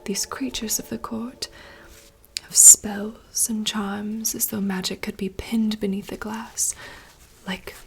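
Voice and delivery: slow, hushed theatrical reading; whispered dramatic monologue. Acted. Reading a princess's forest monologue aloud in rehearsal, hushed theatrical whisper. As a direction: whisper the lines like a stage soliloquy.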